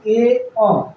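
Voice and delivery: ए अ as two sounds; ए then अ, split apart; vowel demo. Shown as a demonstration. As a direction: spell out ए अ. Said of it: "तो हम उसको ए अ पढ़ते हैं".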